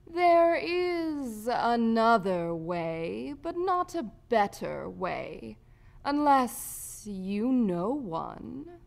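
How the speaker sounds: lazy, superior rat voice; sardonic rat. A narrator's reading. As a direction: stretch each word with lazy disdain. Rat Ripred answers condescendingly.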